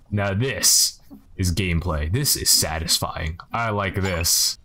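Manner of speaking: savouring. Real, not acted. Savouring satisfying window cleaning.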